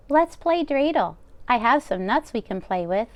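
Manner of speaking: bustle like a kind deaf baba; old grandmother voice. Acted. Old baba taking the rabbi's coat, high and fussing. Baba voicing lines to Bear.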